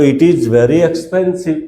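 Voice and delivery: very slow, every word laid out for the class; slow model sentence. Shown as a demonstration. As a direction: say it slowly like a teacher modelling English. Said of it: "તો".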